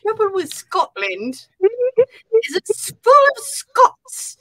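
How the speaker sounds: high, slow quoted line breaking into laughter; laughing Braveheart quote. Retold or imitated. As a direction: quote the film line while cracking up. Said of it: "I have that whole".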